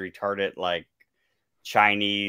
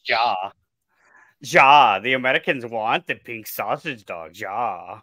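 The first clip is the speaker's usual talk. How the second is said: mock Swedish accent; 4 semitones higher, 8 dB louder, slower than usual. Joins the mock Swedish bit.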